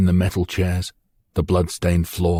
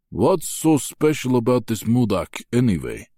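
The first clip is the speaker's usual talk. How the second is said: heavy demanding voice; 5 semitones higher, 3 dB louder than usual. A narrator's reading. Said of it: "demands a heavy voice".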